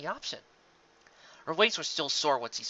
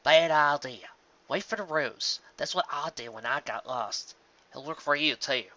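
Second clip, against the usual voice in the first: Applejack's voice; 3 semitones higher than usual. Acted. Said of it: "spoke another familiar voice".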